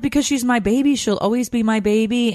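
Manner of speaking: high, mock-weepy pleading; retold tearful protest. Mom explaining her tears to husband, high imitated wail. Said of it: "I'm crying and crying".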